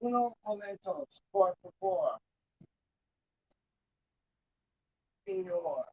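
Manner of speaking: faint, distant Spanish request; off-mic aside. Real, not acted. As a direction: toss out Spanish from across the space.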